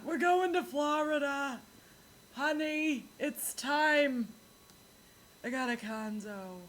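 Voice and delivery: lightly voiced grandma telling her husband it's time; Long Island grandma. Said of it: "Anyway, Florida".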